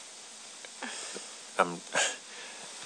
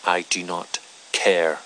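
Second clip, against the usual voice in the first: slow, louder barked orders; angry command; 5 dB louder, slower than usual. Acted. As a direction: build to a furious command. Rising commanding anger.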